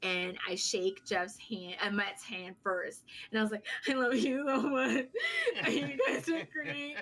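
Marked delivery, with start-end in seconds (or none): 3.9-7.0 half-laughing, mock-tearful gush. Fan in tears to her wrestling idol, mock tearful gushing. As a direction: imitate gushing through tears, laughing at yourself. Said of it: "I'm already in literal tears".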